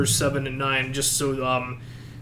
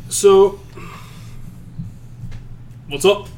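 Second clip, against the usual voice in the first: show host; 5 semitones higher, slower than usual. Acted. Starting the show.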